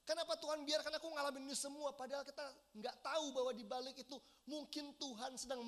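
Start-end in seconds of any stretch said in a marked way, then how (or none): 0.1-2.0 mock angry complaint. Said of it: "Mungkin kita marah dan bilang".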